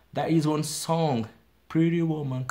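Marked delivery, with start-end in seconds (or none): 1.7-2.5 the song title with a tapped t in "Pretty"; US pronunciation. Shown as a demonstration. Teacher cites a song title as an example, American-style "Pretty". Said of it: "In U S, it's normal to say pretty".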